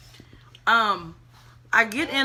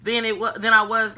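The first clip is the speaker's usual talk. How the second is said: louder, worked-up complaint; genuinely more upset as you talk; real upset; 5 dB louder than usual. Real, not acted. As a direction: let the anger push the volume up. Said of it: "I'm getting more upset now".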